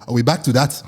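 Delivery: lightly voiced Nigerian-accented parent; imitated Nigerian parent. Parents react to hearing about waxing, Nigerian accent.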